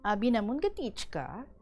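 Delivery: steady radio reading of a letter; on-air letter read. Acted. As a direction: read the listener's letter to the audience. Host reads listener's letter on air.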